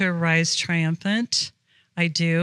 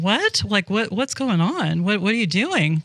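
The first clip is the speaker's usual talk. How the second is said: confused husband. Retold or imitated. Husband watching three men join dinner, bewildered. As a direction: sound thrown as strangers sit down.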